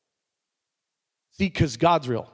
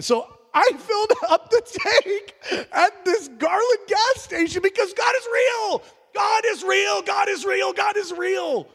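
shouted proclamation; slower than usual. Real, not acted. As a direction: cry it out to the congregation.

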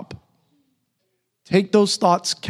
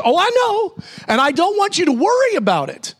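a light, higher voicing of Jesus, soothing; preacher voicing Jesus to worried people, lightly higher and kind; Jesus reassuring; 10 semitones higher than usual. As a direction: lift the voice gently, like comforting a child. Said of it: "And Jesus says".

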